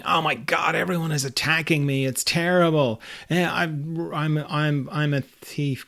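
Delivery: lightly hammed-up alarm; mock panic. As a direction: act out being under attack. Frantic gamer under attack, imagined.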